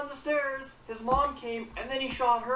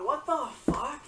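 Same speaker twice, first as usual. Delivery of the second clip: breathy whispered curse under the breath; stunned whisper of disbelief; shocked whisper; 3 semitones higher than usual. Real, not acted. Shocked reaction to killing story.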